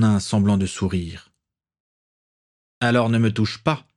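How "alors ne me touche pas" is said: lightly hissed, lisping words; a hint of a hissing old man. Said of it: "d'une voix chuintante".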